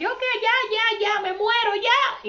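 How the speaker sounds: high, whiny mock of someone moaning they're dying; mock lament "ya me muero". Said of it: "Hay personas que dicen".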